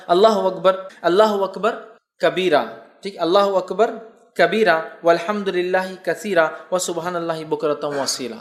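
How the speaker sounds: measured, devout chanting of the takbir; takbir recitation. Shown as a demonstration. Teacher showing listeners the Eid takbir, devout chant. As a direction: recite each Allahu akbar steadily, as in the mosque. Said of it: "وہ یہ ہے".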